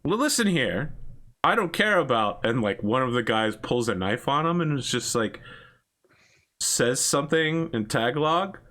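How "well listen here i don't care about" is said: high, pushy Canadian voice; a Canadian talking down to a gangster, pushy and high; Canadian guy. Acted. GM voicing the Canadian tourist, high and pushy. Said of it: "the Canadian guy's like".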